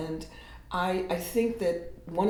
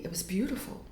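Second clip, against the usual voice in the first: awed whisper; 4 semitones higher, 7 dB quieter than usual. Real, not acted. Recalling friend's words in awe.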